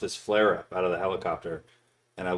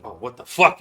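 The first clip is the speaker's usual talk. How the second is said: sudden louder yell of alarm; startled mock yell; 4 semitones higher, 10 dB louder than usual. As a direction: caretaker panicking at the kid's purple face, louder. Caretaker panics at turning purple.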